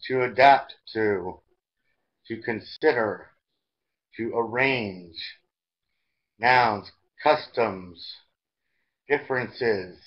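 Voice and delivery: slow, deliberate vocabulary drill; teacher's model reading. Shown as a demonstration. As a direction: stretch each phrase out, pausing for learners to follow.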